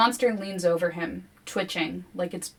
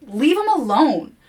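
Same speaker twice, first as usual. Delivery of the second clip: wobbling; 7 semitones higher, 7 dB louder than usual. A narrator's reading. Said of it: "My voice wobbles".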